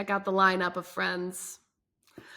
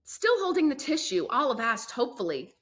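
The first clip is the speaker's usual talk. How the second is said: steady read-aloud storytelling voice; story narration. A narrator's reading. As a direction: read the chapter to young listeners. Reads chapter aloud.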